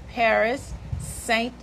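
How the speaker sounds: slow French-accented "Paris Saint Amand". Shown as a demonstration. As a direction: say the name in a French accent, slowly. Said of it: "You said it with the French accent".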